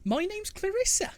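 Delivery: sweet bush voice. Acted. Bush names herself.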